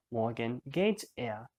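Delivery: Morgen stressed, phrase said slowly; slow demo stressing Morgen; emphasis on Morgen. Shown as a demonstration. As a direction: put the weight on Morgen. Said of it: "to emphasize that he's going tomorrow".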